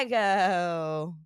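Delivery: put-on slow, drawn-out Chicago accent. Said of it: "Was that your Chicago accent?".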